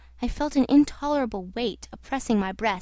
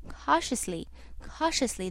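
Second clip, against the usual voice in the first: quiet caution; 6 dB quieter than usual. A narrator's reading. Manager counselling caution.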